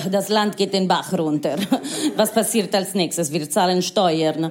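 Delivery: a hint of a scandalized Italian mother; indignant mother. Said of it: "Sie war so".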